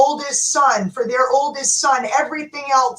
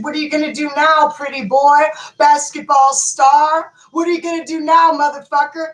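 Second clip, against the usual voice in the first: retold shooter taunt; 2 semitones higher, 3 dB louder than usual. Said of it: "That's what he said".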